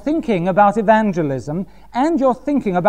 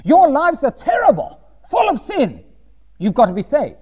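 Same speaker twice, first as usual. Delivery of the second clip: half-mocking the condemning preacher; mock fire-and-brimstone preacher. Imitating other preachers scolding sinners, with a mild mock rant. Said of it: "They would have said".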